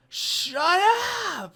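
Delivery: explosive, high-pitched mock yell. Frontman snapping at a heckler between songs, imitated angry yell. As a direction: scream it like an enraged frontman. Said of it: "he's, like, yelling".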